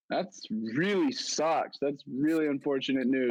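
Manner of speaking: slow, drawn-out mock sympathy; sarcastic slow reply; deadpan sarcasm. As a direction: drag it out, fake sorry. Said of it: "and I was like".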